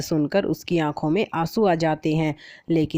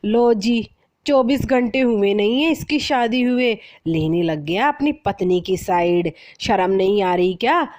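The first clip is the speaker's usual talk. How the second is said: a flustered mother scolding her son; mother flustered that her son sides with his wife; 2 semitones higher than usual. Acted. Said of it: "हड़बड़ाते हुए कहती है".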